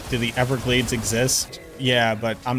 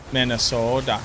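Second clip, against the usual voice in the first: Minnesota said with a put-on Minnesota lilt, long open o; a light jokey Minnesota accent; mock Minnesota accent. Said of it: "more fun if they all sound like Minnesota".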